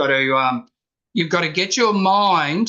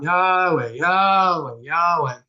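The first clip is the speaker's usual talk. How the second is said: breath prayer; slower than usual. Shown as a demonstration. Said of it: "you can just breathe in and out".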